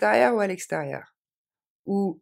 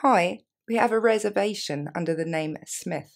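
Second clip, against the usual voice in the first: slower; 4 semitones higher, 3 dB louder than usual. Shown as a demonstration. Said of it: "plus lentement".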